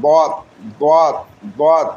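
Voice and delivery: "বদ" as Arabic dad, tongue edge against upper molars; dad articulation. Shown as a demonstration. Teacher showing where dad forms, heavy Arabic d in "বদ". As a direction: press the tongue's side to the molars for "বদ". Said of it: "বাম পাশের মাড়ি দাঁতের সাথে লাগাইয়া".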